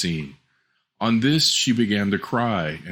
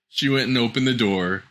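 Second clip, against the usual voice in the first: plain reading voice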